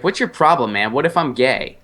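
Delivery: indignant questioning without raising the volume; retold indignant retort. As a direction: replay pushing back at an insult.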